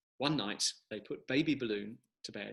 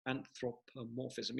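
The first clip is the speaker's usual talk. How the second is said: slow careful repeat; 5 dB quieter, slower than usual. Shown as a demonstration.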